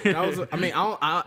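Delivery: talking through a laugh. Real, not acted. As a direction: laugh while speaking. Laughing about the movie.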